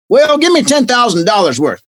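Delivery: mock Texan caller; dumb Texan accent. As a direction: order it like a clueless Texan. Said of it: "a dumb Texan accent".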